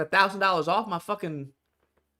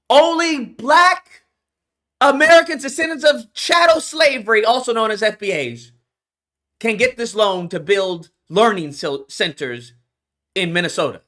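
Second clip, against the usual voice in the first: 1 mock official wording; 2 semitones higher, 4 dB louder than usual. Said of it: "something that says".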